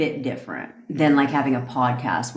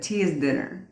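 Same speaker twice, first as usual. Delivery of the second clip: mock British accent; 6 dB quieter than usual. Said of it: "That's what Bevy said".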